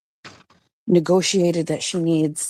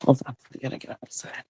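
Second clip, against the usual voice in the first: hushed, half-whispered aside; whispering; 5 semitones lower, 6 dB quieter, faster than usual. Real, not acted. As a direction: keep it down for someone working nearby. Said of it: "Why am I whispering?".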